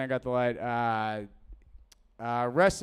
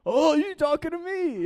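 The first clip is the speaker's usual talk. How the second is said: squeaky, much higher mock voice of someone caught off guard; mock dim voice; 12 semitones higher than usual. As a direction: pitch it way up like a startled dimwit. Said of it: "will be like".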